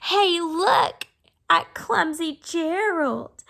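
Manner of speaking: loud mocking jeer; sneering. Animals mocking clumsy Gerald, loud sneering jeer. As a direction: jeer at him like a playground bully. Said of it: "the animals all sneered".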